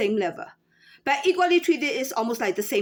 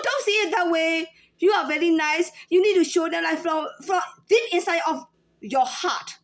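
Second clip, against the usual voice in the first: imitating fussy customers; 5 semitones higher than usual. Cashier mimicking customers scolding her for her tone, higher. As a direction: play the demanding shopper lecturing the clerk. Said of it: "They also want that kind of tone".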